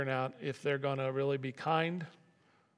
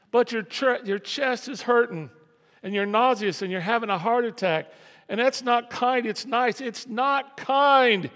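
loud, high, driving sermon peak; full-force preaching; 7 semitones higher, 11 dB louder than usual. Acted. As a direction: hammer it home to the congregation.

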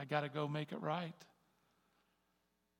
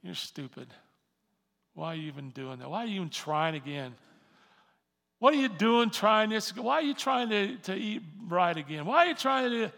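a sneering inner critic, building; taunting accuser escalating; voice of condemnation; 3 semitones higher, 9 dB louder than usual. Acted. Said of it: "Condemnation says".

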